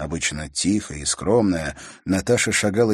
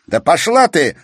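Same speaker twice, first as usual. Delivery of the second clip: loud, higher outburst; irritated shout; 10 semitones higher, 10 dB louder than usual. A narrator's reading. Brother shouting at his sister, irritated. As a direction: snap at her. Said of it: "раздражённо выкрикнул Игорь".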